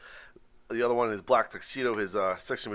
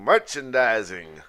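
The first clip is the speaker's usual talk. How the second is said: drawn-out announcer; 7 dB louder, slower than usual. Acted. Repeats title drawn out.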